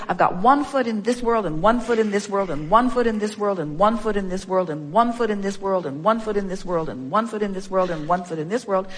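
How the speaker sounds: evenly rhythmic, looping repetition; repetitive mantra. Acted. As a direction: roll through it on a repeating tune without pausing. Mimics listener's repetitive mantra.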